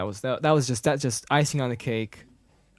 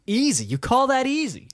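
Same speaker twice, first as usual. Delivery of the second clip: high-pitched mock disbelief; incredulous retort; 12 semitones higher, 4 dB louder than usual. Han answering Leia about the escape, high incredulous retort. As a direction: throw the word back, pitch soaring.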